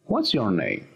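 "What's your name?" with a questioning tune. Shown as a demonstration. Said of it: "Le damos ese tono de pregunta".

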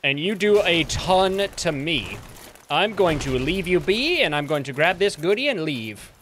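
lightly voiced British accent, mock polite. Player taunting the guardians, light British accent. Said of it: "as for why I'm speaking with a British accent".

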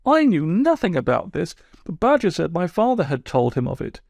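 sulky, wounded toad telling his woes; aggrieved Toad. Acted. Toad voiced by narrator.

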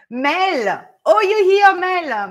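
high, loud squeal of delight at a familiar name; light up, she's here; thrilled to see a regular viewer in the chat; delighted greeting. Real, not acted.

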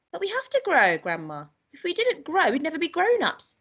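put-on high-pitched little boy arguing; protesting boy. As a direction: reason with Grandma in a high child's voice.

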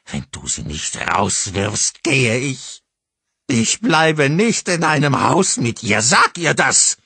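high, loud, slow screaming threat; furious ultimatum. A narrator's reading. Mother threatens husband to leave, screaming.

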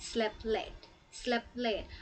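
slow model phrase. Shown as a demonstration. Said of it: "คำนี้ค่ะ slept".

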